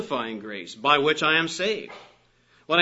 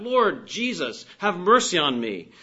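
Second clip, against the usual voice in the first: preacher imitating lepers calling for mercy; crying out; 3 semitones higher, 3 dB louder than usual. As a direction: call out the plea, drawing out the name. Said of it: "The lepers cried out".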